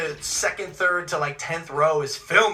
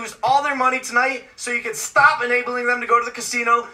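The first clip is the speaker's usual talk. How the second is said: mock prayer; 7 semitones higher than usual. The speaker praying the gamblers lose, mock prayer. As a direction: beg God half-seriously. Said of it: "I prayed to the God and I said".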